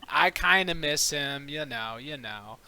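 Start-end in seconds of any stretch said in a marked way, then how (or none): 0.1-1.5 said through a laugh. Acted. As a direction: laugh while saying it.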